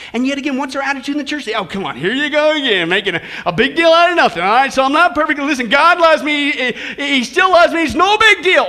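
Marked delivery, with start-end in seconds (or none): 1.5-8.7 louder, flippant brush-off; mocking dismissive churchgoer. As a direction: mimic the careless churchgoer shrugging it off.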